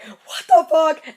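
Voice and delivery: high, slow drawn-out disbelief; mock outraged disbelief. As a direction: stretch it out in shocked confusion. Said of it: "She was like".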